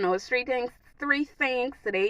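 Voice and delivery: slipping into a Bahamian accent on "three things"; light Bahamian accent, slowed. Real, not acted. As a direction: let a little Bahamian accent come through. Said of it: "my little Bahamian accent was coming out".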